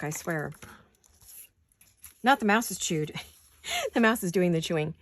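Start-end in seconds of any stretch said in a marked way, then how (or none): 2.2-4.9 laughing. Real, not acted. Joking correction, laughing.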